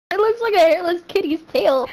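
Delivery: amused, laugh creeping into the words; real laughing. Real, not acted. Making a gross comparison to a friend, laughing. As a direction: barely hold the giggles in.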